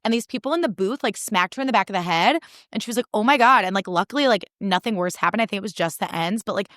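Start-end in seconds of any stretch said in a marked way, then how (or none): 3.1-3.6 loud, startled oh my God; shocked gasp. Retold or imitated. Girl in the booth, startled by the fire, loud shock. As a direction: blurt it out in shock. Girl's hair catches fire.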